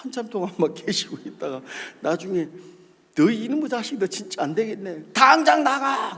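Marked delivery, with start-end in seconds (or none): 3.2-6.2 acted high-pitched dismissal; angry pastor. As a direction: throw a junior out, imitating the pastor. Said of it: "그러시더라고요".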